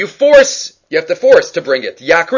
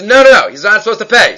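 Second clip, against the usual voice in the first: sharp, high, loud "no, no, no" that then settles; a teacher voicing Rav Papa's firm correction; Rav Papa objecting; 4 semitones higher, 4 dB louder than usual. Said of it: "And Rav Papa says".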